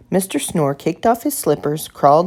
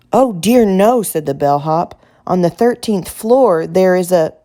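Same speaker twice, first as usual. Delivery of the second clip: alarmed; 2 semitones higher, 4 dB louder than usual. Acted. Bellhop alarmed about thirteenth floor.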